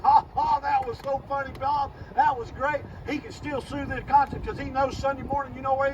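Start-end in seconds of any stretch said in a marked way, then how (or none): 0.0-2.8 mock laughter. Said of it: "they're all laughing".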